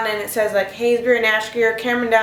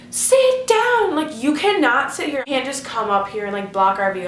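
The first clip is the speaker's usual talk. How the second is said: mock angry yell; 2 semitones higher than usual. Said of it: "I was so mad".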